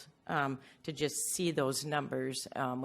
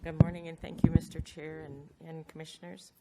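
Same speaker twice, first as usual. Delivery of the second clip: muffled behind a face mask; talking through a face mask. Real, not acted. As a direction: speak through a mask over the mouth. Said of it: "I don't know if you can hear me with my mask on".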